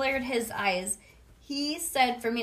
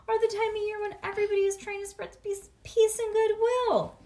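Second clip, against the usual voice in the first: higher stressed lecture; lightly voiced exasperated teacher; preachy lecture; 12 semitones higher, 5 dB louder than usual. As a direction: drive home the lesson.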